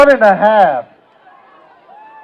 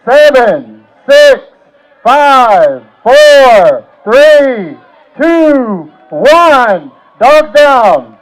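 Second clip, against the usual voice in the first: loud countdown; 4 dB louder, much slower than usual. Real, not acted. Countdown ending the eating contest.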